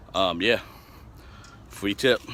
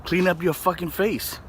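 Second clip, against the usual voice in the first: mom's voice pitched up, scolding; imitating his mom; 8 semitones higher than usual. Son quoting his mom about his face, higher nagging voice. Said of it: "she was like".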